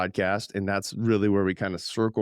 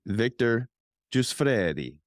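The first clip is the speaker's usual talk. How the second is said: Victor Giussfredi said the Italian way; Italian accent; 2 semitones higher, slower than usual. Shown as a demonstration. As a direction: roll it out like an Italian. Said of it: "So I'm saying it like Italian".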